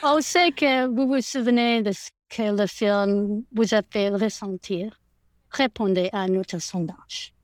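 careful French, read as an appeal. Shown as a demonstration. Guest tries the survey appeal for French fans in French. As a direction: try the request in French. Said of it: "I'm gonna try French".

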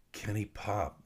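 ordinary delivery, nothing marked

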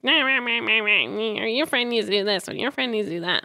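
nagging sing-song nah nah nah; mock your own petty griping; whiny complaining voice. Griping to her sister about a friend, whiny. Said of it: "I like that you use that voice".

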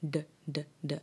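d tapped against the palate. Shown as a demonstration. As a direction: tap each d on the roof of the mouth. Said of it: "or you pronounce it as hud".

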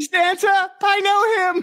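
high, excited elf squeal; Buddy the Elf. Pretend. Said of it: "Buddy the Elf".

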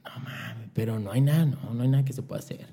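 a near whisper of disbelief; hushed disbelief. Retold or imitated. Begging the radio guy on the phone, hushed and quiet. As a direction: mutter the plea in quiet disbelief.

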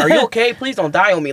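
high-pitched worry through laughter; amused mock concern. Comic to woman laughing too hard, amused mock concern. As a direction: plead playfully, pitch up, laughing.

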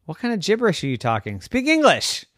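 fast, rising indignant retort; annoyed turtle. Acted. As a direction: scold them for gibberish.

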